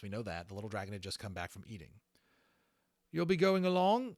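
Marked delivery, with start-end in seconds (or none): 3.1-4.2 high and loud eager question; Holland asking, retaken. Acted. Holland asks the little dragon, high and loud. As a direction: Holland leans in to ask Levitas. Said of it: "that was Holland talking the whole time".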